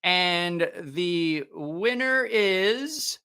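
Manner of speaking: hyped giveaway announcement. Real, not acted. Drawing the giveaway winner live.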